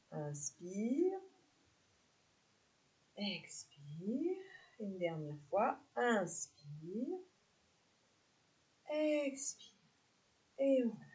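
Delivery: drawn-out breathing cues; guided yoga cues. Real, not acted. Yoga teacher counting down the last breaths, guided delivery. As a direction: stretch each cue along with the breath.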